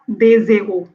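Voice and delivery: des héros said as dez-héros, with a z; wrong liaison. Shown as a demonstration. Teacher showing the mistake with aspirated h. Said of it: "Ce n'est pas".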